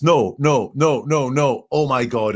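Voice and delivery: half-acted distress; mock shock. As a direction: ham up his panicked no. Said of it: "showing shock".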